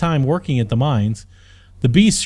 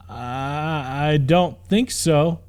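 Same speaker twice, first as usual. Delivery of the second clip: mild stutter; much slower than usual. Acted.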